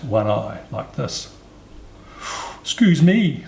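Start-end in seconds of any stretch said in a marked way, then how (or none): 2.6-3.4 high, loud, polite call; polite elephant's child. A narrator's reading. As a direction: pipe up politely as a little elephant. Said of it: "said the elephant's child most politely".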